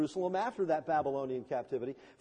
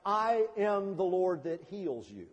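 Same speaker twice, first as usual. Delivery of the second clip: slow, stretched-out proclamation; solemn divine declaration; slower than usual. Acted. Preacher quoting God's names to congregation, solemn. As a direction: intone it slowly and evenly.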